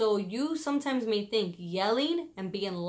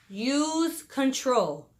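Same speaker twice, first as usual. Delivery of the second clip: slow emphasis; 3 semitones higher, much slower than usual. Shown as a demonstration. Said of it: "tip number four".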